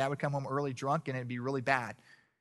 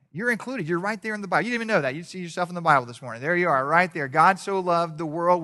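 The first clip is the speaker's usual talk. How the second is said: fervent preaching; 4 semitones higher, 8 dB louder than usual. Real, not acted.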